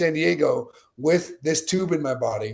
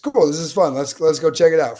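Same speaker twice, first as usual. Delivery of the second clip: carefree enthusiasm; 3 semitones higher, 6 dB louder than usual. Retold or imitated. Recalling his reaction to a free race invite, breezily keen. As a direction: retell being casually up for it.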